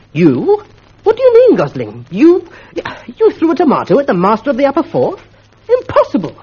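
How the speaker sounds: the schoolmaster leaps up in shock; astonished outburst. Acted. Astonished master shouts.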